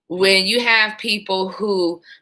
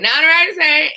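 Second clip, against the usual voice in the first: high greeting, a little less loud; toned-down phone greeting; 8 semitones higher, 4 dB louder than usual. Retold or imitated. Call taker answers the phone, slightly toned-down high greeting. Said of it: "I didn't say it like that".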